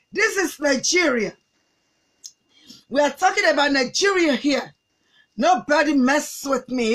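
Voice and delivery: slow, defiant mock-American English; deliberate, drawn-out American-style tough talk; put-on American accent. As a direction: brag and warn in affected American accent. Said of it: "Níbi tó ti ń sọ accent".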